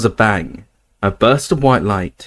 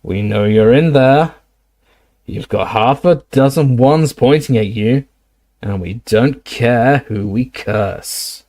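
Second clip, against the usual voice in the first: rasping voice; slower than usual. Acted. Snatcher ordering the hidden trio out, rasping. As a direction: growl the order out into the dark. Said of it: "rasping voice".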